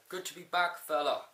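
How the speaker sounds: put-on a weak, lightly done Irish accent; half-hearted Irish accent, barely there; Sheamus Irish accent. Quoting Sheamus greeting Orton, a weak Irish accent. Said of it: "worst Irish accent I've ever pulled off".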